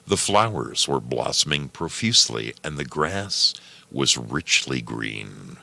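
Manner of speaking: calm storybook reading; story narration. Acted. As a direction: read it like a bedtime tale. Reads story aloud.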